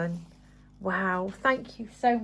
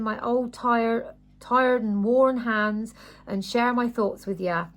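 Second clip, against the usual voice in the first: lightly attempted American accent. Reading Grandma's farm diary aloud, badly faked American accent. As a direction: read it with a hesitant, amateur American accent. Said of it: "I can't do an American accent".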